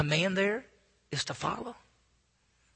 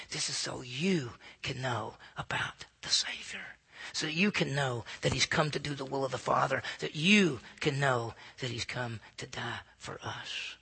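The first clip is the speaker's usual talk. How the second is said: soft, slow whisper; hushed whisper; 4 semitones lower, 7 dB quieter than usual. Acted. Preacher hushing the church on Jesus' purpose, soft whisper. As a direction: whisper it like a sacred secret.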